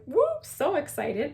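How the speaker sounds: high little whoop of delight; retold giddy reaction; excited. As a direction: act out your excitement, starting high. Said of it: "I was so excited to see this".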